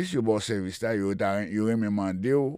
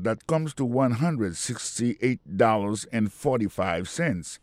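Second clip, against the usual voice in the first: slow model reading; slower than usual. Shown as a demonstration. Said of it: "Men ki jon di sa an angle".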